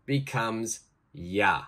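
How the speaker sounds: slow teacher explanation. Shown as a demonstration. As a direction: spell it out slowly. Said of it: "always try to join".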